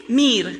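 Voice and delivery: мир said slowly and clearly, rolled r; Russian word мир. Shown as a demonstration. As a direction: model the Russian мир for the class. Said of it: "Say мир".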